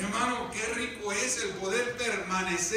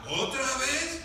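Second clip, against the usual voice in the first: carcelero preguntando; 3 semitones higher, slower than usual. Acted. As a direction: ask it with the pitch climbing to the end. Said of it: "el carcelero ya no le decía". (pregunta del carcelero, tono ascendente)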